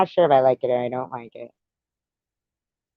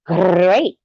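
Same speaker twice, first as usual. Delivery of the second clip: failed Tony the Tiger; 6 semitones higher, 5 dB louder than usual. Shown as a demonstration. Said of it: "Nope, that's not right".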